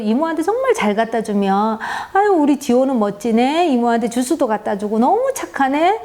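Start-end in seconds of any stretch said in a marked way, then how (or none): 2.1-6.0 put-on praising child. Mother praising Jiho for bringing juice, bright warm praise. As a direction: gush over the child's good deed. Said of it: "칭찬받아서".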